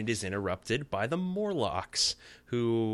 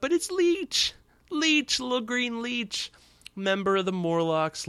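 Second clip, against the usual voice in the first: much higher, loud, excited announcement of "Leech"; gleeful reveal; 14 semitones higher, 4 dB louder than usual. Real, not acted. Fan excitedly announcing the character Leech on his podcast. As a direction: cheer the character's entrance.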